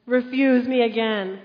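hammed-up wrath from heaven, dragged out; mock angry God. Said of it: "Then God became angry with Moses".

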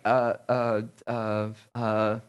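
low, halting stammer; low hesitant noises, at a loss; mock stumped. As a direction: imitate someone lost for an answer. Imitates person caught off guard.

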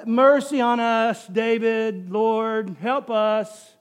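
unexcited, drawn-out cry for help; half-hearted plea. Acted. Preacher showing how the blind beggars did not cry out, half-hearted. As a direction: beg as if you barely mean it. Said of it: "No, they are shouting this".

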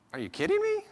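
high, loud mock disbelief; hammed-up outrage at the cursing; incredulous. Next table swears nonstop, pastor mocks his own disbelief. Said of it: "and then it's like".

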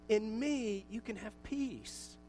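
gentle promise. Acted. Quoting Jesus' gentle promise.

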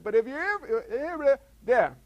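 tongue-tied stammer, dragged out. Real, not acted. Preacher tripping over his point to the congregation, stammering. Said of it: "I just stammered".

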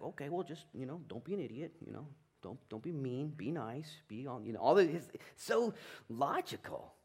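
a lightly voiced laid-back John; casual John. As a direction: toss it off like it's obvious. John's casual answer voiced.

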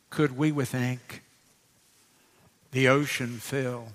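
hushed verses, trailing off at line ends; hymn recitation. Acted.

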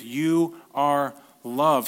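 drawn-out, earnest promise; slow, sincere reassurance. Real, not acted. Pastor assuring the congregation they are truly loved, slow and sincere. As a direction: let each word land slowly. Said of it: "It's the truth".

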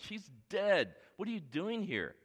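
high, loud scoff; mocking bystanders. Bystanders to Jesus at the house, mocking. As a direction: jeer at him from the doorway. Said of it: "they're just laughing, like".

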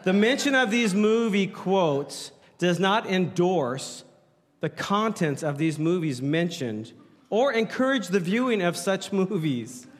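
slowed, deliberate reading; slow plain reading. Shown as a demonstration. Pastor rereading the disclaimer slowly for the congregation. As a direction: take it slow and clear. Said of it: "but he's gracious".

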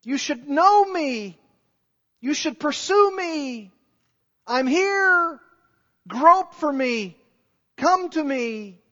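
high, lifted, pleading call of God; God calling out to mankind to come. Retold or imitated. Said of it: "God is saying".

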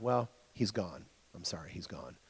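low, hushed mock condolence; grave bad news. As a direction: drop to a near-whisper, acting the doctor breaking bad news. Doctor breaking death news to family.

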